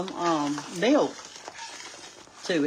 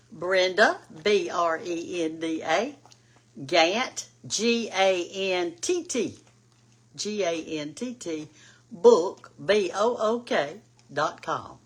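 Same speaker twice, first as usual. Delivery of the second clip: slow, deliberate spelling of the web address; spelled out slowly; 3 dB louder, slower than usual. Shown as a demonstration. Spelling her website slowly for viewers, clear and deliberate. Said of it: "I'll repeat that".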